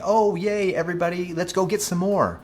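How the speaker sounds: high, sarcastic cheering voice; mock cheer. Vlogger mocking the idea that inflation is good, high sarcastic cheer. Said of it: "like we're saying".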